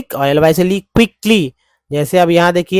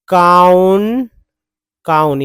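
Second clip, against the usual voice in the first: slow syllable; much slower than usual. Shown as a demonstration. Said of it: "यहाँ पर देखिए काउंटर".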